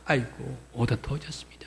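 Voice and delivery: ordinary talk, nothing marked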